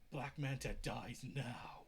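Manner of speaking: slow, unvoiced, low vow; vengeful whisper. Arthur vows to kill Black Manta, a slow whisper. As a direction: hiss out the vow slowly.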